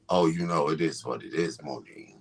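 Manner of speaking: very low, laid-back smooth talk; deep voice. Pretend. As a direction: sink the pitch right down. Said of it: "Why your voice so deep, Joseph?".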